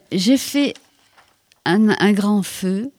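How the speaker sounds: slow, hushed haiku reading with long pauses; poem reading. Acted. Poet reading her autumn haiku to the host, slow and hushed. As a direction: let each line settle, slowly.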